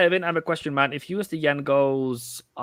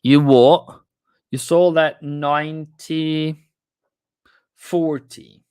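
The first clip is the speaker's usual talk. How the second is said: surprised; 4 semitones higher, 8 dB louder, slower than usual. Real, not acted. Trader hears a surprising sale price.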